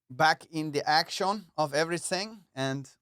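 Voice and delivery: put-on loosely done German accent. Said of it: "I keep doing this German ac".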